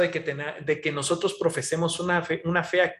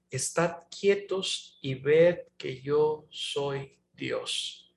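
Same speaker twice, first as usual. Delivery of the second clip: calm psalm quote; 2 semitones lower, 4 dB quieter, much slower than usual. Retold or imitated. Quoting God's psalm.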